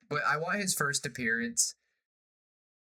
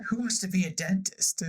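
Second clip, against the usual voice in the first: mock pirate scoff; 8 semitones higher, 4 dB louder than usual. Pirate mocking the dentist dream.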